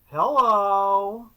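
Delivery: a dry, unexcited hello into the mic; deadpan hello. Retold or imitated. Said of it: "It was".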